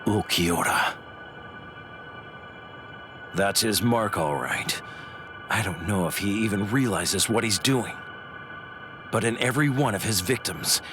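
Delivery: low, brooding grudge against a rival; low menace. Acted. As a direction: mull it over darkly.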